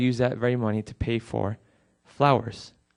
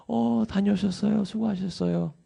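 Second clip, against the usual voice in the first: high, fast, sugary welcome-home voice; fake cheerful greeting; 8 semitones higher, much faster than usual. Son greets returning parents, pretending all is fine, fast and sweet. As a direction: chirp a breezy greeting as if nothing's wrong. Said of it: "act like everything's okay".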